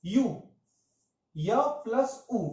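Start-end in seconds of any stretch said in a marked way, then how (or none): 1.4-2.5 slow, sound by sound: य then उ. Shown as a demonstration. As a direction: break यू into य plus उ slowly. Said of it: "इसका उच्चारण देखें तो य". (धीरे-धीरे ध्वनि तोड़कर)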